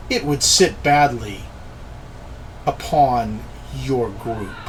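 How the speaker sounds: put-on measured speech with a light African accent; lightly put-on African accent, words set apart by pauses; slight African accent. Spellcaster answers Scarron's threat, slight African accent. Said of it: "slight accent, almost an African accent".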